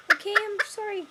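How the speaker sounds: high and loud, soothing the hens; loud apology. Real, not acted. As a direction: call out a sorry to the flock.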